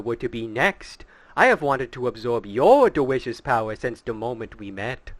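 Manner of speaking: lightly voiced, gloating trickster; gloating villain. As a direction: savor the betrayal like a smug villain. Villain reveal in character.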